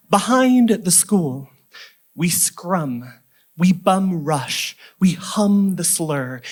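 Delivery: slow, deliberate spoken-word delivery; poem recital. Acted. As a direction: recite in short, weighted phrases with drawn-out words. Reads a poem to an audience.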